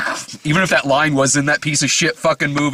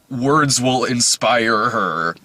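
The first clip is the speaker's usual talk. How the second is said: mock trailer narration; 4 semitones lower, much slower than usual. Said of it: "the narration in the trailer says".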